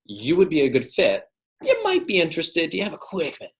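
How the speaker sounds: "would", "might" and "quick minute" pitched high; emphasis on key words. Shown as a demonstration. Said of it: "So I'm emphasizing".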